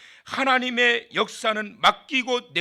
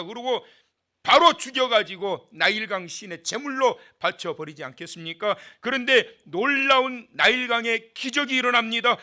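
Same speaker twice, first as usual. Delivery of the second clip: ordinary delivery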